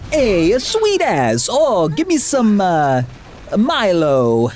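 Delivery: high-pitched mock North Island Kiwi accent; hammed-up New Zealand accent, high and stretched out. Shown as a demonstration. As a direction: put on a silly high Kiwi voice. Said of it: "the North Island is more like".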